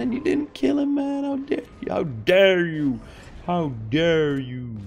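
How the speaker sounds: high, slow mock outrage; hammed-up offended teammate; shaking with anger. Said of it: "He's like".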